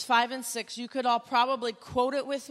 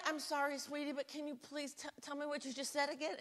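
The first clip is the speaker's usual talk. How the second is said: much softer, gentle hushed asking; hushed apology; 13 dB quieter than usual. Retold or imitated. Youth leader asking a whispering girl to repeat, hushed. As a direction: lean in and ask softly so only she hears.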